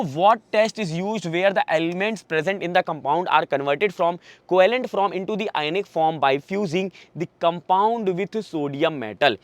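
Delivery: reads the question out very slowly, word by word; slow dictation reading. Acted. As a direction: spell it out slowly for the class. (बहुत धीरे-धीरे प्रश्न पढ़ना)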